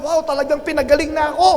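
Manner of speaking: mildly acted astonishment; amazed at being healed. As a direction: voice the healed man's delighted discovery. Voices the newly healed leper.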